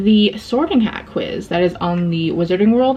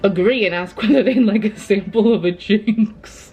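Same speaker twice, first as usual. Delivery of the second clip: reading aloud in a put-on British accent; measured, lightly assumed British accent. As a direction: read the quiz like a British storyteller. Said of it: "I don't know why I'm doing an accent".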